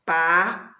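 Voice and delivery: Papagaio split into pa, pa, ga, i, o; syllables separated. Shown as a demonstration. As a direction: give each syllable of Papagaio a beat. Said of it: "Olha lá, separei".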